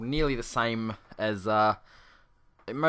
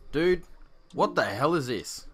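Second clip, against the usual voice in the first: incredulous viewer; 3 semitones higher, 5 dB louder, slower than usual. Retold or imitated. Imagined viewer reaction.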